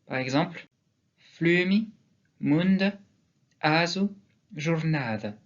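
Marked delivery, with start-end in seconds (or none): 1.2-5.3 "flumi", "mund", "asu", "jornada" stressed on next-to-last syllable; word list with weak final vowels in "mund" and "jornada"; penultimate stress. Shown as a demonstration. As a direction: lengthen the accented vowel, list intonation rising until "jornada". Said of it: "doit être accentué sur l'avant-dernière syllabe".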